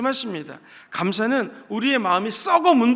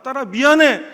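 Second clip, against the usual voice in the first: tearful apology; 4 semitones higher, 8 dB louder than usual. Retold or imitated. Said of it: "막 엉엉 울면서 이렇게 얘기했대요".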